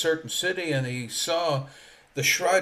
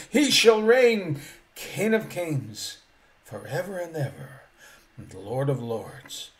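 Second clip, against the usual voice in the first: climactic preaching. Acted. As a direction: build to the climax of the sermon. Climactic preaching of a hymn text.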